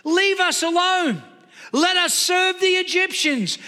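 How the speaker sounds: complaining. Acted. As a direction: mimic a people griping at their leader. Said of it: "listen to the complaints".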